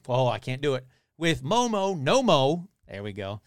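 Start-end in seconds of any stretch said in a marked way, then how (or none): 1.2-2.7 higher, lilting catchphrase delivery; mock slogan. Podcaster settling on the episode title, lilting mock proclamation. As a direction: lilt it like a title.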